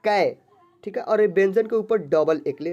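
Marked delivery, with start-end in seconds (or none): 0.0-0.4 कै on its own, drawn out as "kai"; pronunciation demo. Shown as a demonstration. Teacher answering how double-matra is read, drawn-out syllable. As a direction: sound out कै clearly with a long gliding vowel. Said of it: "इसका उच्चारण होगा कै".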